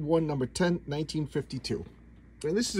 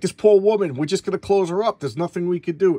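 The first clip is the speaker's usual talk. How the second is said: mock despair; 4 semitones higher, 6 dB louder than usual. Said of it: "He's like".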